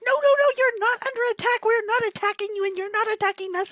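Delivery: high, hurried denial; urgent protest. Acted. Goose to alarmed creatures, urgent high protest. Goose hastily denies an attack.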